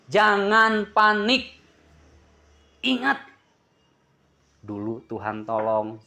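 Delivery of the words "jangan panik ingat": urging exhortation. Acted. Preacher exhorts congregation.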